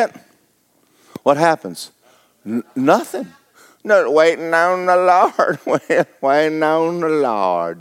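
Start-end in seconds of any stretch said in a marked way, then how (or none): 3.8-5.6 slow, sing-song mockery of lazy believers; mocking passivity. Preacher mocking idle church folk with slow piety. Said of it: "We hadn't done nothing in ten years". 5.7-7.8 "We're waiting on the Lord" drawn out slowly through a laugh; mock pious drawl. Preacher mocking churchgoers, slow and laughing. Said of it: "We hadn't done nothing in ten years".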